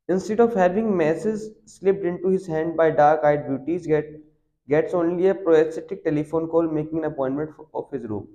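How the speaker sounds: reading the English passage slowly and deliberately; slow text reading. Acted. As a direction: read each word out slowly for the class. Reads the English text aloud. (धीमी गति से पाठ पढ़ना)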